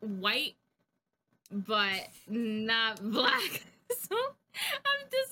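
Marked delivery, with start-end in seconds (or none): 1.5-5.3 very slow, stretched words with a laugh; drawn-out hesitation. Real, not acted. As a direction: drag each word out playfully. Joking about own in-between complexion.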